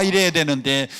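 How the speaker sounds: ordinary talk, nothing marked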